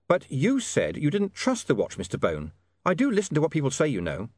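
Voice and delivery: lightly voiced, pointed William. William reminding Mister Bone of his words, mildly pointed. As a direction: catch him out, rising then dropping on the tail.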